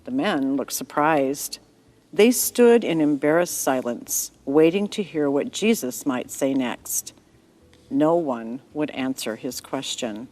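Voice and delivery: gentle storyteller reading a bible story; story narration. A narrator's reading. Narrator telling a child-friendly story to listeners. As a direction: read it like a bedtime tale for children.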